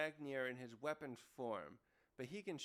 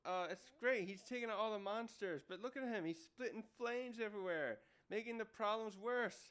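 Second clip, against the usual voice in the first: mildly exasperated, higher-pitched retelling; fed up; 5 semitones higher than usual. Retold or imitated. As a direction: lay out the complaint like a fed-up crewmate. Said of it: "getting fed up".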